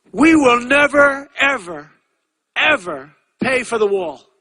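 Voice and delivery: high, loud, slow defiant vow; hammed-up proud refusal; mocking the ex-president's vow; mock defiant quote. Quoting Mexican ex-president defiantly.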